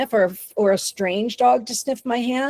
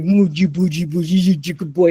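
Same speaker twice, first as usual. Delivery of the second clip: voicing a doting owner; 4 semitones lower than usual. Shown as a demonstration. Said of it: "you're going".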